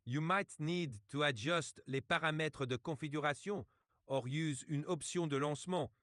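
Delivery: put-on English with French words and a French accent. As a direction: mix French phrases into a French-accented explanation. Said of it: "please, and use some French words".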